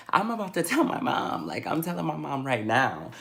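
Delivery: quick, eager, fired up; rushing to tell mom; excited blurt. Retold or imitated. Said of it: "I'm like".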